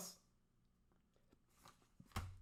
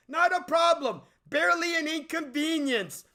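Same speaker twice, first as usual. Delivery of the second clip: higher smug producer brush-off; borrowed catchphrase; 7 semitones higher than usual. Retold or imitated. Reviewer borrowing a parody catchphrase, higher and breezy. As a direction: toss it off like nothing's wrong. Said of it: "Again, I hate stealing this".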